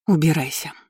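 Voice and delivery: restrained growled dismissal. Acted. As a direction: growl it through mild anger. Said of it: "прорычала Кейра".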